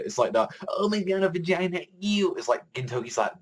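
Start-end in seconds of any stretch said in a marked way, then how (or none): 0.7-2.3 mock disgusted squeal. Mock disgusted character quote.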